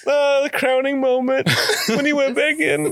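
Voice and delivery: high squealing laugh through the words; giggling, can barely get it out; laughing hard. Real, not acted. Friend laughing about the crowning moment.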